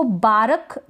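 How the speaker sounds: "बारक" में र पूरा, दो हिस्सों में बा-रक; गलत मिसाल "बारक", र साफ़ सुनाते हुए; पूरा र, गलत रूप. Shown as a demonstration. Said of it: "बिल्कुल गलत हो जाएगा". ("बारक" को र के बाद स्वर जोड़कर)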